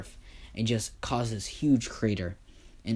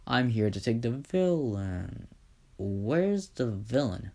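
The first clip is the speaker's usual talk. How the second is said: slow, drawn-out mock-heroic voice; lightly voiced hero; slower than usual. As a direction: stretch the words like a showy hero. Hero arrives seeking the villain.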